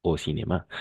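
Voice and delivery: "cinéma" stressed on its last syllable; final-syllable stress. Shown as a demonstration. Teacher illustrating French prosody, "cinéma" stressed on the end. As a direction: let "cinéma" land on MA. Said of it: "siempre va a ir al final".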